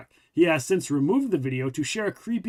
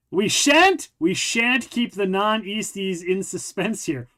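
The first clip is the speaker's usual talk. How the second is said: mock-posh reading; 3 semitones higher, slower than usual. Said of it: "What the fuck kind of phrase is that?".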